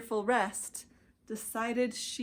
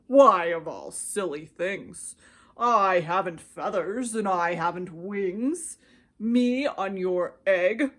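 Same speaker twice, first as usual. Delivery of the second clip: elephant voice; 2 semitones lower, 5 dB louder, slower than usual. Acted. Elephant protesting.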